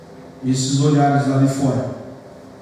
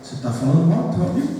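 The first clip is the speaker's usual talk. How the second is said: lightly voiced nagging conscience, quick and rising; a quick, softly questioning little inner voice; hint of a small voice checking on you; 4 dB quieter than usual. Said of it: "já vem aquela vozinha e vai dizer assim".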